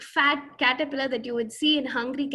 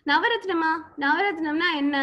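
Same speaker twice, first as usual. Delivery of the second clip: put-on child asking; 3 semitones higher, 3 dB louder, much faster than usual. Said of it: "this fellow who was listening said".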